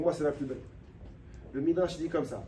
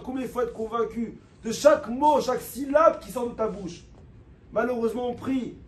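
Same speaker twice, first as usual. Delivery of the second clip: louder, higher, pleading sermon voice; fervent preaching; 5 semitones higher, 6 dB louder than usual. Real, not acted. Rabbi urging his listeners to pray with heart, fervent preaching. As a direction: preach it with full fire to the congregation.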